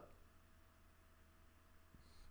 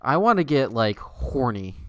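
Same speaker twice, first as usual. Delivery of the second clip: loud joke; 5 dB louder than usual. Real, not acted. Streamer telling chat he wants spicier, louder. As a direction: push it out to chat.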